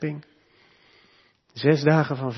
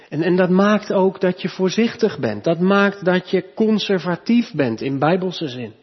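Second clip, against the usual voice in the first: higher, louder sermon voice, driving each point home; fervent preaching; 4 semitones higher, 4 dB louder than usual. Acted. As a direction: preach it with growing conviction. Preekt met volle kracht. (vurig preken, hoger en luider)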